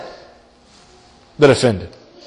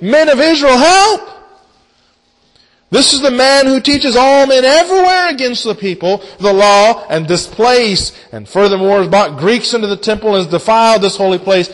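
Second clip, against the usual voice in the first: crowd crying out; 3 semitones higher than usual. Acted. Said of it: "they cry out in verse twenty-eight".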